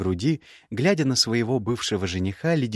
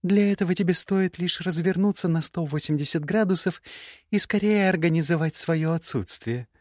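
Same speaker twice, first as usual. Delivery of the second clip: put-on young woman's voice pitched higher, cool and cutting; higher, cool scornful young woman; Gerda's voice; 8 semitones higher than usual. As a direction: play the proud, scornful ex-bride. Gerda continues.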